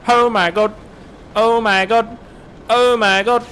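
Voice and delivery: high, loud oh my God while cracking up; rising squeals of disbelief; laughing disbelief. Real, not acted.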